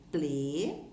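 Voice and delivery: "grande" loud and split as gran-de; "grande" in two measured beats, gran, de; syllable by syllable. Shown as a demonstration. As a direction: sound out both syllables of "grande" firmly. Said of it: "observe a separação de sílabas destas palavras".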